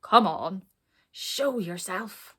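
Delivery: loud bark, then a slow drawn-out demand; a lurking beast calling out; rumbling dragon. Acted. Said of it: "rumbled a very deep voice".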